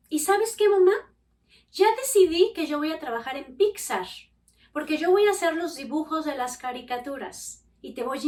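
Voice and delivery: voz de niña, más aguda y más fuerte; anúnciale tu gran plan con ilusión; hija entusiasmada. Retold or imitated. Hija anuncia su sueño. (la hija le cuenta su sueño de Pixar, entusiasmada)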